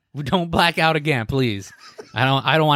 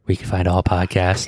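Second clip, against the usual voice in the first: mock ASMR; 7 semitones lower than usual. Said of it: "do a little A S M R here".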